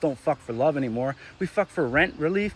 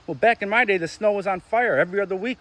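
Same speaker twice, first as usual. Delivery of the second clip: sarcastic comeback; 4 semitones higher than usual. Acted. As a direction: flip the phrase back at them, mocking.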